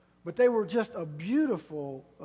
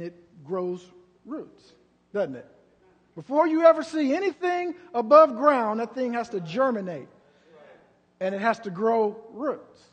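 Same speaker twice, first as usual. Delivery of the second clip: calm teaching voice. Retold or imitated. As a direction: gently lay out the seed lesson. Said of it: "And the Lord said this".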